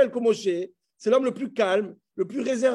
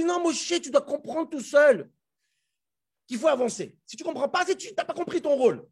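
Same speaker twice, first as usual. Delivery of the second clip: higher-pitched, acted reproof; God's reproof; 4 semitones higher than usual. God telling Moshe to understand alone, reproving. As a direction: correct him firmly with raised pitch. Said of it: "Et Dieu dit".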